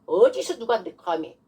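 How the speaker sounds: indignant demonstrated challenge; stern, affronted authority; forceful rebuke. Shown as a demonstration. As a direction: dress down the devil. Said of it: "이렇게 해야 되는 거예요".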